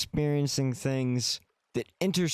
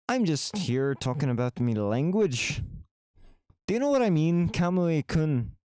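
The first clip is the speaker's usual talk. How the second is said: mock Irish accent; 4 semitones higher than usual. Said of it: "You want me to talk Irish?".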